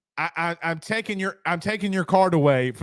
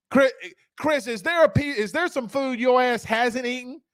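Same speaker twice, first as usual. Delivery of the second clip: incredulous tease; 6 semitones higher than usual. Real, not acted. Teasing Chris in disbelief.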